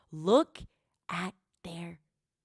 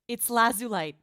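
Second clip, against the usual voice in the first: louder, brighter call of Lazulite; excited confirmation; 3 semitones higher, 4 dB louder than usual. Real, not acted. Streamer excitedly confirms her old team to chat. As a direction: announce it proudly.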